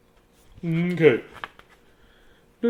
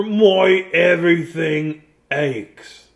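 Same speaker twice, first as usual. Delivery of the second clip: whimper; 2 semitones higher, much slower than usual. Acted. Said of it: "He said with a whimper".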